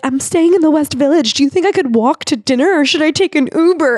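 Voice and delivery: high, hammed-up worried visitor; a fretful tourist asking if walking is safe; mock anxious tourist. A nervous visitor asks the locals about walking: mock anxious tourist.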